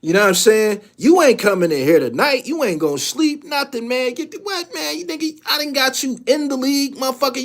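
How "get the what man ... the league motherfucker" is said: normal talking voice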